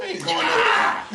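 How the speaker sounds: very high comic protest; mock refusal. Parent shutting down the fight, mock exasperated.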